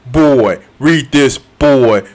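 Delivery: a hint of a stern god scolding his son; imitating Kratos. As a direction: gruffly boss the boy around, in a lightly voiced imitation. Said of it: "He was like".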